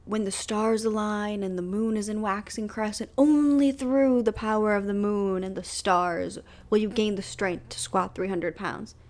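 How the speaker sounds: lightly intoned fake prophecy; a hint of mock-epic incantation; mock-mystical proclamation. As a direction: proclaim it like a hammy oracle, drawing out the key words. Mocking waiting for a cosmic sign.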